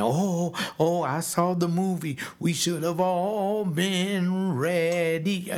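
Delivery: high, slow mocking voice of a scared believer; slow mock believer whine. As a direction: sneer at the rapture crowd.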